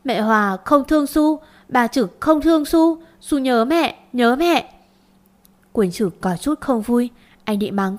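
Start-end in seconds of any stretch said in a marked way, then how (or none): 0.0-4.7 lightly acted child crying that she misses her mother; child bursting into tears. Little Su sobbing to her stepmother, a mild acted cry. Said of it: "Bé Su òa lên khóc".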